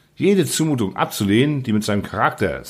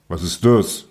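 low, puzzled growl; grumbling; 6 semitones lower than usual. A narrator's reading. Secretary fails to understand the youth's profession, low grumble. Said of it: "brummte sein Begleiter".

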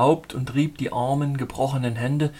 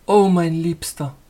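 slow, louder, woman's voice, awakening; tender heroine; 3 semitones higher, 6 dB louder than usual. Acted. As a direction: breathe it out slowly to her rescuer. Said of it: "sagte sie".

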